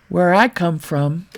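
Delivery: a light Brooklyn accent on the repeat. Shown as a demonstration. Tutor repeats his line for viewers, in a light Brooklyn accent. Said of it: "my good old Brooklyn accent".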